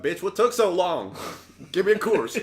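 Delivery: put-on high, loud, demanding baby bit; mock cussing newborn. Joking as a baby fresh from the womb, loudly indignant.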